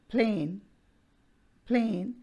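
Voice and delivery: PLAIN said alone, its vowel gliding in one syllable; diphthong demonstration. Shown as a demonstration. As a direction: model "plain" for learners as a single gliding vowel. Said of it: "and moves towards another". (plain का स्वर एक syllable में फिसलाकर बोलें)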